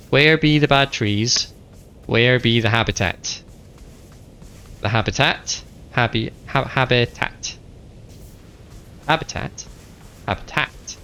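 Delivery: Where be the bad trees, habitat said with shifting stress each time, playful; playing with stress. Shown as a demonstration. Streamer repeating habitat in different ways, playful stress. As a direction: toy with the stress on habitat, trying a new syllable each take. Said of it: "put the emphasis on a different syllable".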